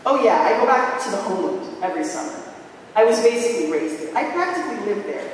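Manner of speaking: hammed-up snooty boasting; fake haughty European. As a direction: show off your Greekness, mildly obnoxious. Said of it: "It was fake as fuck".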